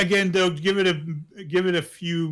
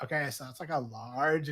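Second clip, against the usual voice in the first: imitated affected voice; 2 semitones lower, 4 dB quieter than usual. Woman at the coffee order, imitated lazy affectation. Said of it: "affiliation that you're supposed to put on".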